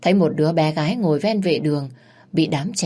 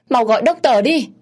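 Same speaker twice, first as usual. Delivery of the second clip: much higher and louder, a frantic scream; screaming for help; 8 semitones higher, 7 dB louder than usual. Acted. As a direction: scream for the doctor, out of control. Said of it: "Bà Hai Tình hét lên".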